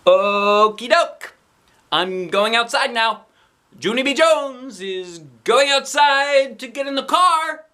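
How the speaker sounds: high, loud, slow calling out. A narrator's reading. Kid calling to absent Mother, high and loud. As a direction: call it across the house. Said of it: "I shouted louder".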